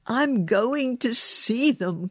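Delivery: high, determined declaration; eager storybook boy insisting; excited cry. A narrator's reading. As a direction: declare it eagerly, pitched well up. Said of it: "Colin cried".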